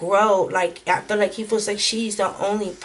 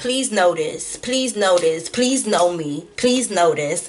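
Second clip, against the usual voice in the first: scornful, derisive mock parroting voice. Imitating an ex after a card's message irritated: mocking imitation of an ex. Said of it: "that's how my ex talk".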